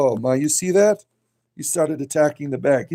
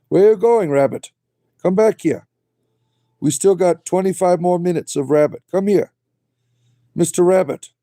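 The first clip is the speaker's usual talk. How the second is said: calling out; 4 semitones higher than usual. Real, not acted. Calling the rabbit back.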